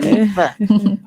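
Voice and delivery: Anifa said as Anitha, tongue between the teeth on the th; th in her name. Shown as a demonstration. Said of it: "You have to put your teeth between it".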